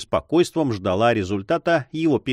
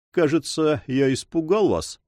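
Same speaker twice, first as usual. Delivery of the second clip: higher, mock-courteous irony; ironic, lightly raised voice; 6 semitones higher than usual. A narrator's reading. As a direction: taunt them with mock concern. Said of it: "продолжал он с иронией".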